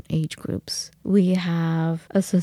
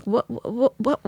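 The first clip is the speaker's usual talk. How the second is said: dumbfounded; 3 semitones higher, slower than usual. Retold or imitated. Stunned reaction to abrupt session end.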